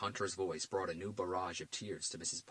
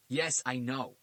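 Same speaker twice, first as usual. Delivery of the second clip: dry, mocking, higher and louder; sarcastic detective; 5 semitones higher, 6 dB louder, slower than usual. A narrator's reading. Garcia mocking the FBI agent, sarcastic. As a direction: needle the agent. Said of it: "Garcia addressed the agent".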